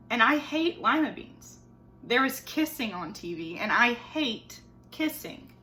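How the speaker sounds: put-on expressive read-aloud for children; story reading. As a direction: tell the story to a class of kids. Teacher reads picture book aloud.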